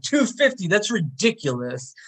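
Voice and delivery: high, incredulous echo of the price; mock outrage, leaping high then dropping; angry disbelief. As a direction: balk at the price, imitating an angry buyer. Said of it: "He's just, like, angry".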